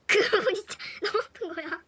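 cracking up while stressing the pain; loud giggling emphasis; laughing harder. Real, not acted.

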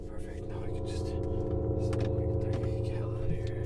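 voiceless whisper while sneaking away; tense whisper. Acted. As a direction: whisper to yourself, trying not to be noticed. Creeping away from the pursuer.

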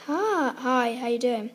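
mild mock of mum saying hello; imitating mum's old voice. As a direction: mimic mum's former everyday hello, a bit loud. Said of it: "She used to speak like".

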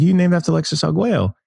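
high-voiced amateur boxer impression; Mike Tyson. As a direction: ask it in a badly faked, high boxer voice. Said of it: "that's my terrible Mike Tyson impression".

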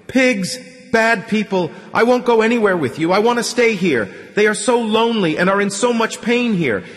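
high, loud furious shouting; angry outcry. A narrator's reading. Crying man refusing to leave, shouting angrily at Artyom. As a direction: scream at them to leave you be. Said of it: "cried out angrily".

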